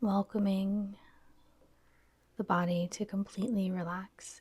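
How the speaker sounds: soft, unhurried yoga nidra guidance; guided meditation. Real, not acted. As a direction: gently lead them into stillness, pausing between phrases.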